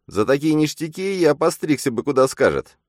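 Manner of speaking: a shrill impressed inner voice; impressed double. A narrator's reading. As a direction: marvel with a whistle. Phantom voice.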